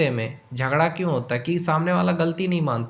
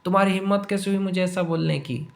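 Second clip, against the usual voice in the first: raised pitch, a light imitation of an indignant partner; mock angry retort; 3 semitones higher than usual. Partner snapping back at a scolding, mildly mock angry. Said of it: "और गुस्से में बोलेगा".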